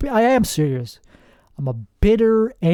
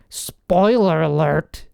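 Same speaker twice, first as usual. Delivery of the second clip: mock announcement; slower than usual. Mocking the phrase.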